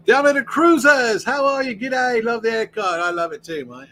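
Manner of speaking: a high, loud, hammed-up Australian accent; bad Australian accent, pitched high and loud. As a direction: greet a viewer like a cheery Aussie, laying the Australian accent on thick. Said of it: "Please don't tell me how bad the accent is".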